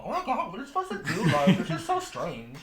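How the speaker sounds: laughing. Real, not acted. Player laughing at the voice.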